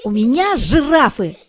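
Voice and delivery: a cheerful kitten answers. A narrator's reading. Kitten Pryanik answers teacher. (голос котёнка, выше и громче)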